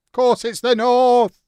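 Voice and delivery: emphatic shout. Real, not acted. Streamer insists to chat, loud slow outburst. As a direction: declare it like it's beyond argument. Insisting in north-south banter.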